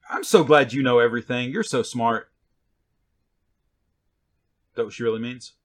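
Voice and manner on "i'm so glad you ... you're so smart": lightly voiced mother's mock praise; a mother humouring a know-it-all teen; sarcastic mother. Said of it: "a mother looking at a teenager".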